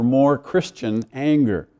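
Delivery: emphasis on the word "Christian"; stress on Christian. Shown as a demonstration. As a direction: lean on "Christian" before "anger". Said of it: "Emphasis on Christian".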